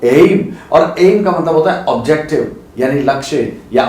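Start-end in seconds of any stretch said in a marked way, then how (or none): 0.0-0.5 एम said clearly for repeating; pronunciation demo. Shown as a demonstration. Teacher asks students to repeat एम. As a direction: model एम for the class. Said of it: "मेरे साथ बोलिए".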